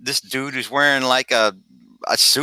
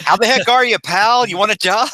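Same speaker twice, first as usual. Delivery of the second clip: hearty boss; 9 semitones higher, 5 dB louder than usual. Acted. Editor boisterously offers job.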